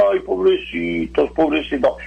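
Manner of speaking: lightly imitated pitying coo, drawn out; mock pity. Preacher mimics someone seeing another's need, mock pity. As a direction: draw it out like someone feeling sorry. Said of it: "Eso es lástima".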